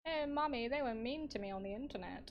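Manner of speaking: lightly mocked whiny tattletale to mummy; mummy's boy. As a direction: put on a mummy's boy, starting high. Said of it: "little mummy's boys who'll be like".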